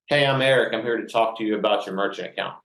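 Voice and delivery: bright, upbeat salesman hello put on over tears; a brave smile you can hear, then a brisk pitch; forced cheerful greeting. Salesman greeting a new client after crying, put-on cheerful. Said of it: "I put a smile on my face".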